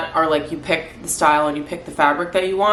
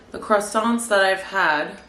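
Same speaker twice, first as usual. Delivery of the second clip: croissants with a French-tinged nasal vowel; half French accent; 2 semitones higher, slower than usual. Real, not acted. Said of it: "I just said that with, like, a half American, half French accent".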